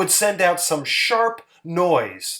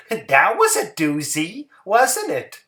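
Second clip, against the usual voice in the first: higher, sweet and simple housewife voice; Hazel's voice; 4 semitones higher than usual. Acted. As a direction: voice Hazel a bit higher, artless and pleased. Hazel's voice in story.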